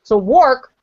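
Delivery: "work" stressed with a strong r-colored vowel, wɔɹk; model work. Shown as a demonstration. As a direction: hit "work" and hold the r. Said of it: "you said walk and work".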